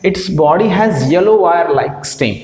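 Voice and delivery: very slow, word by word; slow dictation. Shown as a demonstration. Teacher dictating the second adaptation, very slowly. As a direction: spell out the point for notes. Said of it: "second क्या adaptation?".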